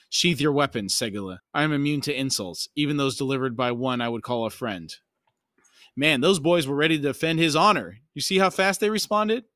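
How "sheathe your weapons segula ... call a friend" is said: measured audiobook reading with lightly acted dialogue; story narration. A narrator's reading. Narrator reading a tense reunion to listeners, story narration. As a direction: read a fantasy novel aloud, formal and deliberate. Reads the novel aloud.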